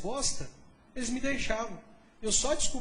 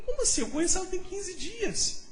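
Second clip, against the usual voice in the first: shocked disbelief; 8 semitones higher than usual. Retold or imitated. Pastor retelling his reply to God, squealing in shocked disbelief. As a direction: squeal it like you can't believe your ears.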